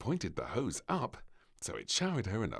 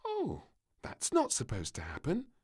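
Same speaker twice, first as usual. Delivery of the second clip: higher mildly cross little voice; a girl let down by the chart; mild piping huff; cross princess; 10 semitones higher than usual. A narrator's reading. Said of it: "she said crossly".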